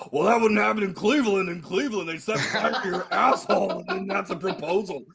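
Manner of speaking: lightly mocking impression of partner; Tim impression. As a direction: tease him by copying how he talks. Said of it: "this is you when you talk".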